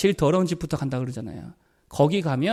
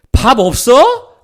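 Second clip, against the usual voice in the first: curt demand; 5 semitones higher, 10 dB louder, much slower than usual. Retold or imitated. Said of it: "이 말 하지 말래요".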